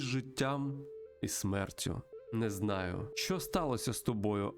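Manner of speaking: measured, mystical storytelling voice; solemn spirit guide. Acted. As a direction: intone it like an ancient guide to a lost soul. Voices spirit guide Great Mountain. (урочистий голос духа-наставника)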